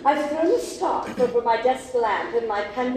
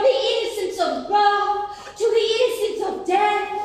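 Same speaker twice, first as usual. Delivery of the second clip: hammy stage actor; 5 semitones higher than usual. Acted. Mock Shakespearean mourning speech.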